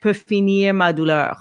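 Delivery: peut finir ma douleur joined smoothly; connected phrase. Shown as a demonstration. Coach modeling a connected phrase ending. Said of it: "and connect".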